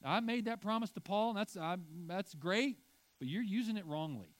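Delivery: lightly voiced Jesus, gently letting the boys down; a hint of Jesus, apologetic and wry; Jesus amused. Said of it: "he's like".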